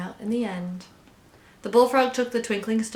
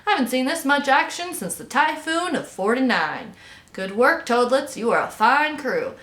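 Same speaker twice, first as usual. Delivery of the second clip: excited, raised captain's voice; hearty shouting; 5 semitones higher, 4 dB louder than usual. A narrator's reading. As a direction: praise the crew with rousing gusto. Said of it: "Captain Dalbert shouted".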